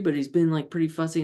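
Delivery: normal talking voice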